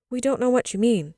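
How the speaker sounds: put-on high, loud childish protest; cried out. A narrator's reading. Children answer mother's musing, crying out. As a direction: protest loudly like puzzled children. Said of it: "they cried".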